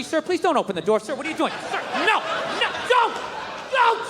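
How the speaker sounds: high frantic screams of no; panicked screaming. Acted. Young pilot screaming as passenger jumps out, high panic. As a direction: beg the passenger to stop, panicking.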